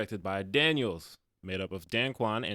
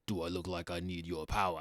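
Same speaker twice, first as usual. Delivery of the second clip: Knuckles; 4 semitones lower, 5 dB quieter than usual. Retold or imitated. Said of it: "when he says that line".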